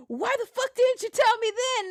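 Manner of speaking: high, put-on whiny complaint; mock upset friend. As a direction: play the embarrassed guy demanding answers.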